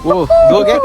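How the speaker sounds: high-pitched excited squeal. Real, not acted. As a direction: squeal it out in delight.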